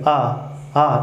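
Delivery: open, relaxed आ straight from the throat; easy throat vowel demo; effortless aa sound. Shown as a demonstration. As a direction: let आ flow out with no effort. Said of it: "देखिए आप check भी कर सकते हैं".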